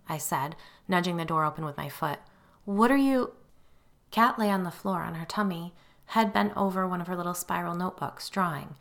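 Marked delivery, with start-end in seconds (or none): 2.6-3.3 startled question. A narrator's reading. Mother breaking off, surprised.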